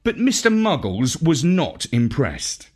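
ordinary delivery, nothing marked

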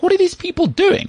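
high, incredulous squeak; baffled. Retold or imitated. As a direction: sound completely baffled by the scene. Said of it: "I'm like".

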